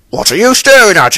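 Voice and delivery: a hushed, wary snap at an onlooker; gruff Fat Controller. A narrator's reading. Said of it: "he asked".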